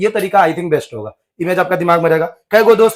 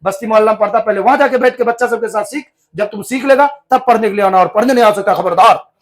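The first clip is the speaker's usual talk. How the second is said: stern scolding; 2 semitones higher than usual. Acted. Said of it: "इतना डांट मारा".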